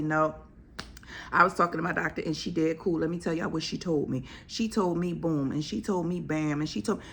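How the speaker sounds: quick, chatty brag about my doctor; excited patient retelling. Retold or imitated. Patient telling friends at brunch what her doctor said, lightly voiced and fast. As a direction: rattle it off like gossip at brunch. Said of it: "And you can say".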